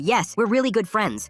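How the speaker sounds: high, drawn-out reply; eager insistence. A narrator's reading. Nervous girl lies to cop.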